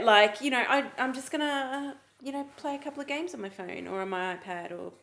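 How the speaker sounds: mock-innocent self-justification; sarcastic. Co-host making excuses for phone games, lightly sarcastic. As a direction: play down the habit with light sarcasm. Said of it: "I'm being sarcastic because I know".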